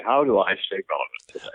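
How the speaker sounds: whispered to the mirror, half-joking; mock whisper. Actor quoting his mirror talk, joking whisper. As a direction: breathe it like a secret to yourself.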